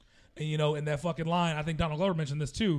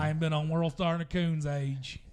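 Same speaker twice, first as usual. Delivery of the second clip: Southern accent. Shown as a demonstration. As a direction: say it in his own Southern accent. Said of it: "And you don't have an accent?".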